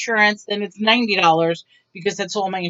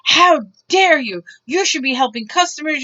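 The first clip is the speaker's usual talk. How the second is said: high, loud outraged scold; mock indignant customer; 5 semitones higher, 3 dB louder than usual. Retelling the rude customer, mock outrage. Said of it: "she's like".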